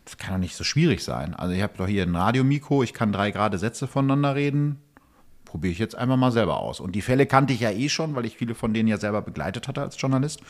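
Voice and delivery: normal talking voice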